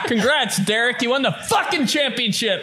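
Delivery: mock angry shout. Mock dad shouting praise.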